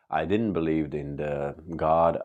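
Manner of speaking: usual speaking voice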